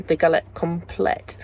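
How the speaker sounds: slow French accent on the dish name; best French accent. Shown as a demonstration. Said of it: "Said in my best French, French accent".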